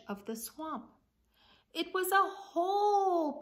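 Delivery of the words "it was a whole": high, loud, wide-eyed wonder at a whole pie; amazed. A narrator's reading. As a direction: make the whole pie sound like a treasure. Dramatic reading of story.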